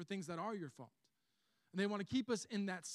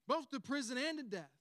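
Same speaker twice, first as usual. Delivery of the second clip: loud, higher, emphatic vow; bold declaration; 6 semitones higher, 6 dB louder than usual. Retold or imitated. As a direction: proclaim it boldly to the room. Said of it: "he made this bold declaration".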